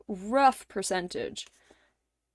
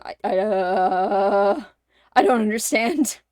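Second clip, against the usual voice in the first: panicked confusion; 5 dB louder, slower than usual. Retold or imitated. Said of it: "Panicking until you're just like".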